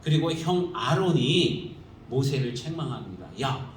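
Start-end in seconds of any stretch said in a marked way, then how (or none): 3.4-3.7 a mild mock scolding of a younger brother; lightly acted sister's rebuke, rising on 회개해. Sister scolding Moses for loving a foreign woman, mock scolding. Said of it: "하면서 야단을 칩니다".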